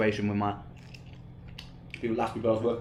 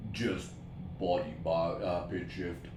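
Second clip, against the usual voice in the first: pitch shifted low; 6 semitones lower, 7 dB quieter, slower than usual. Real, not acted. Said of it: "put about an octave of pitch shift on it".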